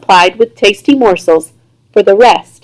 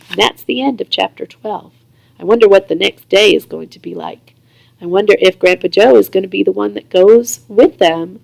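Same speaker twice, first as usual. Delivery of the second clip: soft sign-off; 2 semitones lower, 4 dB quieter than usual. Real, not acted. Reader signs off softly.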